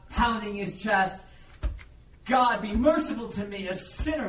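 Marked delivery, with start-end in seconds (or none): 2.3-4.3 pleading, pitched up a little; crying out. Acted. Tax collector praying at the back, mild crying out. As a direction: plead upward for mercy, understated. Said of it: "is crying out".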